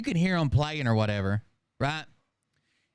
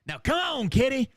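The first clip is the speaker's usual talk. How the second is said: coaxing a cat; 6 semitones higher, 3 dB louder than usual. Retold or imitated. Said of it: "he says".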